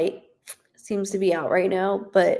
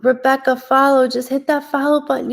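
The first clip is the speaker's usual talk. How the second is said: higher, louder, fast push to follow; excited urging; 5 semitones higher, 5 dB louder than usual. Real, not acted. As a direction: cheer the viewer into hitting follow.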